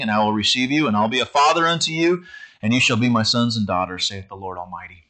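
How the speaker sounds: even, unhurried King James recitation; scripture read aloud to the church. Acted. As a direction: read the passage out to the congregation. Reads long scripture passage.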